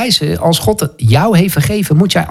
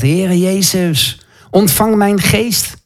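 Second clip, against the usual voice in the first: slow, drawn-out plea in a raised pitch; retold calling out; 4 semitones higher, much slower than usual. Preacher voicing Stefanus calling on Jezus while being stoned, retold calling out. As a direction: call out to the Lord, stretching the words. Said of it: "roept hij Jezus aan".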